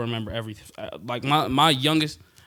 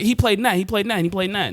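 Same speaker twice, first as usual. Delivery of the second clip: excited recognition; 8 semitones higher, faster than usual. Retold or imitated. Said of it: "I'd be like".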